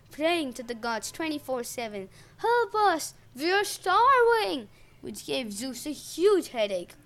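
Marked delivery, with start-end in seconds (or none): 2.4-4.7 high, loud, slow desperate cry; crying out in agony. A narrator's reading. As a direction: wail for help. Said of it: "cry out in agony".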